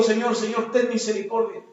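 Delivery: prayer. Retold or imitated. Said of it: "yo le pido a Dios y digo".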